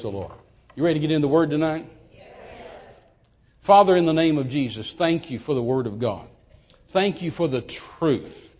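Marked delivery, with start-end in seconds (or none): 3.6-8.5 prayer. Acted. Opening prayer.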